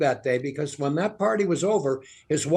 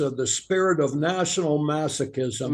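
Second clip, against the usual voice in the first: Spiro Agnew monotone. Acted. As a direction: drone it out like Agnew. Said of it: "Spiro Agnew had kind of a monotone voice".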